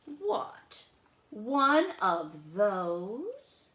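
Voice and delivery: can't believe what he hears; Charlie surprised. Acted. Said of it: "And I said".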